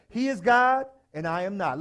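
leading the congregation in a loud refrain; call-and-response line. Shown as a demonstration. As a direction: call it out for them to repeat. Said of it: "I'm gonna say it, and then you say it".

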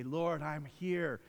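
very slow, tender prayer; slow, hushed devotion; prayerful surrender. Retold or imitated. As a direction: pray it slowly and humbly. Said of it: "and we say".

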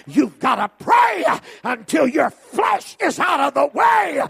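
high, loud, shouting preacher's climb; full-force preaching. Acted. Preacher crying out Jesus' prayer to the congregation, shouting. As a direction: hammer it home to the pews.

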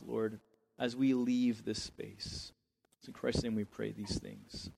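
measured, earnest prayer with pauses; pastor's closing prayer; spoken prayer. Real, not acted. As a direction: lead a congregation in prayer, phrase by phrase.

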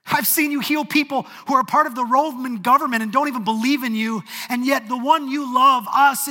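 loud, high, hurt and accusing; emotional accusation. Acted. Martha blaming Jesus for not coming, loud and hurt. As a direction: throw the blame at him through tears. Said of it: "you can hear the emotion in Martha's voice".

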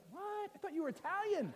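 high, hushed disbelief; hammed-up astonished husband; mock shock. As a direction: squeak it softly in stunned surprise. Husband acting shocked at wife's reveal.

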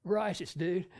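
soft, laid-back surfer drawl; a lightly voiced surfer dude. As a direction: toss it off like a lazy surfer. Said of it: "kinda talking like this".

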